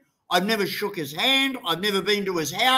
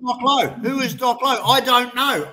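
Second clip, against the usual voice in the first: higher-pitched, insistent questioning; real exasperation, pitched up; exasperated denial; 3 semitones higher than usual. Real, not acted. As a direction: throw the question back, fed up. Heated denial of knowing someone.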